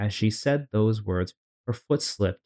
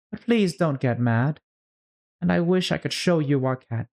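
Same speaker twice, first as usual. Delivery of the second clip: put-on coaxing girl voice; 4 semitones higher than usual. Alice coaxing the mouse.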